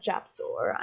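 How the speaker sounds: slow, careful name for spelling; spelled out slowly. Shown as a demonstration. Merchant slowing down so players can spell Japsor. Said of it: "I'm gonna spell that out".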